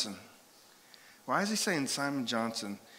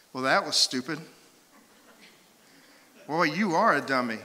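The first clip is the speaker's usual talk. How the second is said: mock-blunt, scornful put-down; insulting counselor; 3 dB louder than usual. Pastor to client in office, mock scorn. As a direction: dismiss the client with hammed-up contempt. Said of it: "and I'm like".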